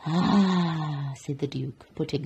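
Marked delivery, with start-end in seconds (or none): 0.1-1.1 satisfied ahh. Acted. Duke savours his honeyed roll.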